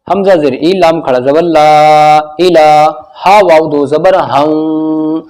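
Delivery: slow drawn-out chant; recitation. Shown as a demonstration. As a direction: intone slowly. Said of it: "recitation demo".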